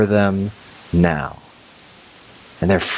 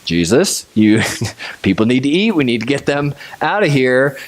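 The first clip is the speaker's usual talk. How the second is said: mock panic; 3 semitones higher than usual. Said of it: "they're freaking out".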